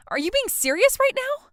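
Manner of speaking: can't believe what she's hearing; shocked disbelief. Acted. Bride hears guests won't come, high shocked disbelief. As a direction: leap up high in stunned disbelief.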